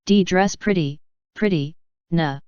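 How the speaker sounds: light Bajan Caribbean lilt; hint of a Bajan accent. Shown as a demonstration. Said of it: "the Bajan would say".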